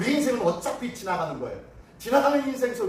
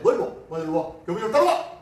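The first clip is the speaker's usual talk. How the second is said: lightly acted teacher's brisk, louder summons; stern teacher calling over; 5 dB louder, faster than usual. Teacher summoning a student caught fighting, stern call. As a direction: order the pupil over, teacher-style.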